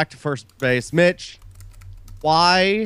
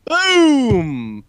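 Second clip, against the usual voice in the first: excited shout; 11 semitones higher, 4 dB louder than usual. Acted. Exclaiming after answer.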